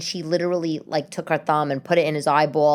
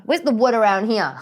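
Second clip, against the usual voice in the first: joking, laughing; 4 semitones higher than usual. Real, not acted. Looking around for wood to knock, joking laugh. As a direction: toss it out, then crack up.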